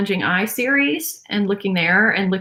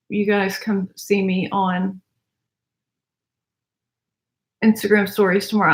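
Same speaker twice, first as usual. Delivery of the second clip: talking while applying mascara. Real, not acted. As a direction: mouth stretched open for mascara. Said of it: "I'm having a problem talking and putting on mascara".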